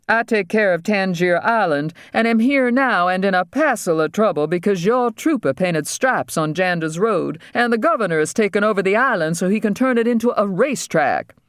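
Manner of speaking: high-pitched, put-upon dentist; pleading mainland dentist. Acted. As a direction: plead your case in a high voice. Voices the dentist.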